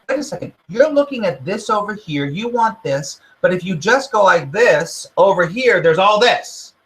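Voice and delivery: gently pointing you elsewhere; the universe's voice. Retold or imitated. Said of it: "So it's going".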